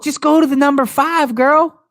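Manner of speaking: high, loud and insistent. Real, not acted. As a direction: raise your voice to hurry a co-host along. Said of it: "like, raising your voice at me".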